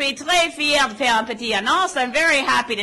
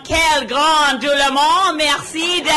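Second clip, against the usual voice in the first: loud rally call; 4 dB louder than usual. Real, not acted. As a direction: belt it out over the crowd. Rally, crowd greeting.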